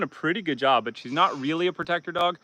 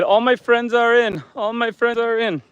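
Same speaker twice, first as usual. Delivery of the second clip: 1 lightly voiced goat; 9 semitones higher, 5 dB louder than usual. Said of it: "She said".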